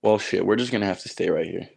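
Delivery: echoey basement room sound; talking in a hollow basement. Real, not acted. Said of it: "I'm in the basement right now".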